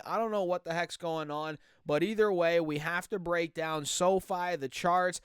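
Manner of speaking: ordinary talk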